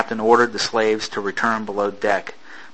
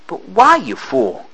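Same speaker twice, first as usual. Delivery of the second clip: angry retort; 8 semitones higher, slower than usual. Acted. Angry exchange on deck.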